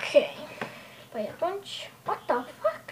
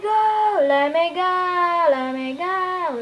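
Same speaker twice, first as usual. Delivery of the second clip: desperate plea; 4 semitones higher, 8 dB louder, slower than usual. Acted. Pleading cry at start.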